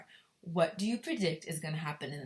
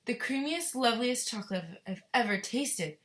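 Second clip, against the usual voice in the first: savoring grandpa; 6 semitones higher, 3 dB louder than usual. Acted. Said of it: "said Grandpa Joe, smacking his lips".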